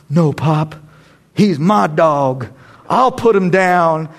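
put-on slow, drawn-out line of a tough film boy; film character. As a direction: say it slowly, holding back the tears. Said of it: "you know, that guy says".

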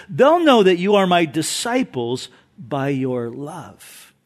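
sincere quote. Retold or imitated. Preacher giving Jesus's real words to congregation, sincere. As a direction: settle gently into the true saying. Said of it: "No, he says".

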